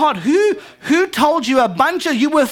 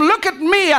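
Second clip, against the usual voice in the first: put-on demanding older son; 6 semitones higher than usual. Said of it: "He's telling him".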